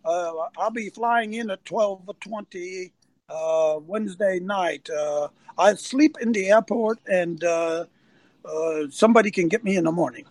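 slow, halting imitation of Victor's accent. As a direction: mimic Victor's accent lightly, with pauses. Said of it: "he speaks with an accent".

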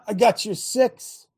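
"I got your six" drawn out slowly, each word weighed; slow emphatic repeat. Shown as a demonstration. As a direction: lean into every word slowly.

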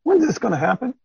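eager disciples. Acted. Disciples pressing Jesus for answers, high eager voices. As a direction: call out like an impatient follower. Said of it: "The disciples came to him and said".

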